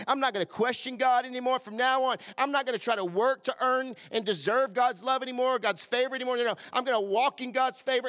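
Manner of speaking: resolved vow growing into full preaching; building declaration. Acted. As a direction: build from a murmur to a rallying cry.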